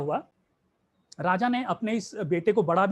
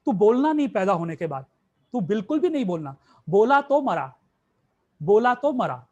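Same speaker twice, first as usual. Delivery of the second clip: stern loud warning; 6 dB louder than usual. Acted. Guru sternly warns the disciple.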